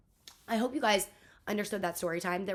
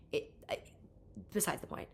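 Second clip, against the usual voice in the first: whispered aside; 4 semitones lower, 6 dB quieter than usual. Real, not acted. Telling viewers an aside, whispered. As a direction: drop to a whisper for a quick aside.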